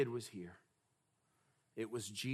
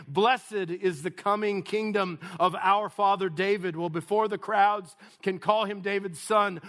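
raised sermon voice, growing louder; emphatic, higher-pitched preaching; building preaching; 7 semitones higher, 8 dB louder than usual. Real, not acted. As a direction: preach with mounting force. Preaches at full force.

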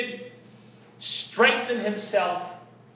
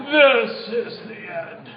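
slow movie-style doom line; much slower than usual. Shown as a demonstration. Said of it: "You gotta say it like that so we can do movie style".

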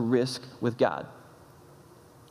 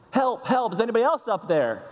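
higher, mock-desperate call for help; punchline plea; 6 semitones higher than usual. Jack refusing God's advice, calling up higher for someone else. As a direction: ham up a panicked shout upward.

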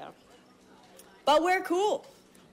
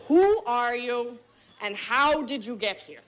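stern cop. Retold or imitated. Lead cop interrogates them.

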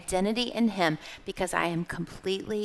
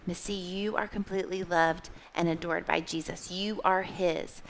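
tender self-reassurance; 2 semitones lower, 5 dB quieter than usual. Retold or imitated. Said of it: "I have to remind myself".

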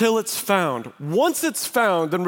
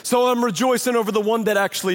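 raised pitch, preacher voicing Jesus's correction; impassioned rebuke; 5 semitones higher than usual. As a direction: drive it home emphatically, pitched high. Jesus rebuking the self-righteous.

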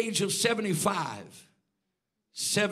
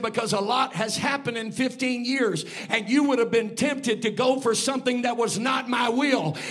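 loud, high preaching shout; God's booming answer; 4 semitones higher, 8 dB louder than usual. Acted. God answering the preacher's question, loud shouting proclamation. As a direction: proclaim God's reply at full force. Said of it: "He said".

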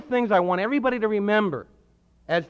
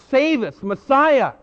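crowd crying out; 5 dB louder than usual. Retold or imitated. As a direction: call it across the crowd. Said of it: "What are they crying out?".

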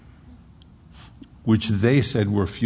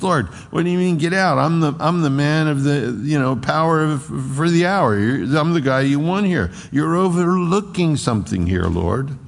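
Paul arguing; 4 semitones higher than usual. Acted. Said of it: "He says".

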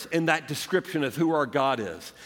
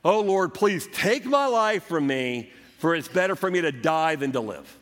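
1 dramatic Jonah. Acted. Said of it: "a little dramatic".

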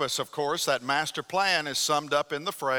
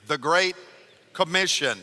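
congregation recital; 2 semitones higher than usual. Shown as a demonstration. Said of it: "say that out loud together with me".

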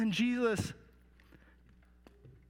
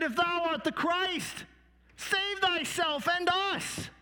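raised, slow, jeering voice; mocking criminal; 9 semitones higher than usual. Criminal jeering at Jesus, raised and slow. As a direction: sneer it up at him from the next cross. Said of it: "blasphemed him and said".

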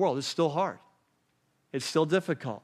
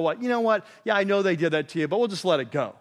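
dismissive judge; faster than usual. Retold or imitated. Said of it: "a judge to go".

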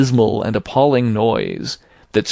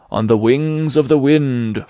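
unearthly voice; 3 semitones higher than usual. A narrator's reading. Ghost's eerie answer.

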